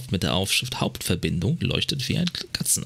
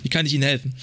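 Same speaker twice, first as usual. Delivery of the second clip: lightly voiced dispatcher. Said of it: "Hier ist Officer Alice".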